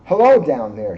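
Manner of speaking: the moon calls down to the dinosaurs, loud; calling out. Acted. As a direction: hail the dinosaurs from the sky. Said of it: "she called to the lumbering dinosaurs".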